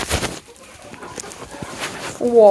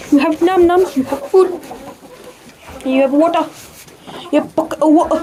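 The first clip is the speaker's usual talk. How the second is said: high, sweet talk to the chickens; 4 semitones higher, faster than usual. Real, not acted. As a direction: coo at the hens like babies. Talking to chickens, baby talk.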